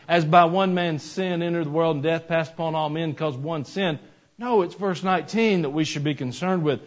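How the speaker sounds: slow, weighty Bible quote, last words stretched out; scripture reading. Acted. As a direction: let each word of the verse land. Reads scripture aloud.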